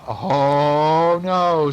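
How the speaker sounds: long drawn-out, swelling "oh"; playful refusal. A narrator's reading. Aunt refuses to free burglar, playful. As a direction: refuse with teasing relish.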